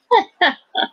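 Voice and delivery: a high, loud burst of laughter. Real, not acted. Laughing at himself before the crowd, loud laugh. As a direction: laugh hard at your own joke.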